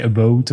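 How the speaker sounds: "a boat" as a Canadian-style "about"; Canadian pronunciation. Shown as a demonstration. French speaker showing how Canadians talk, Canadian pronunciation. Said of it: "if you speak like a Canadian person".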